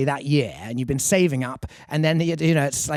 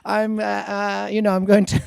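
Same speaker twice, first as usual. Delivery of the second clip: higher-pitched, hammed-up German accent; terrible German accent; 7 semitones higher than usual. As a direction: play an enthusiastic German DJ with a bad accent. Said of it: "I'm doing a terrible German accent".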